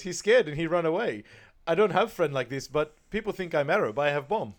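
mock-proud Farouk bragging; imitating Farouk. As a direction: crow about scaring the thug off. Farouk quoted, telling thug story.

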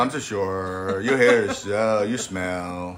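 put-on slow, drawled Valley girl put-down; mock Valley girl. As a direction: stretch it out like a snooty Valley girl. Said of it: "you're the worst Valley Girl".

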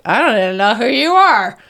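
a hint of an indifferent ex; cold first husband. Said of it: "The first one was like".

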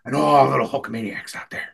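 rally the fans like an eighties wrestler; hammed-up wrestler hype in short bursts; Hulk Hogan. Shown as a demonstration. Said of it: "I can do an okay Hogan".

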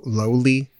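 "lowly" said low-lee, as in the Finnish word. Shown as a demonstration. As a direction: spell it loyly but say "lowly". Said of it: "it's kinda sounds like low".

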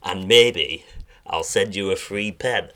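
lightly put-on northern English accent. Impressionist giving co-host a guessing game, in a light northern accent. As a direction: try on a Northern English voice, haltingly. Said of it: "in my northern accent".

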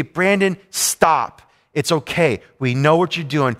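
firm, measured instruction; lightly acted stern nurse, phrase by phrase. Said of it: "had to say sternly to me".

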